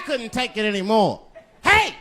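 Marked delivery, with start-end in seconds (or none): 1.6-1.9 high loud hey hey; loud protest. Retold or imitated. Comedian snapping back at the store owner, loud and high. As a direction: push back hard on the shopkeeper. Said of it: "I said, raising my hand".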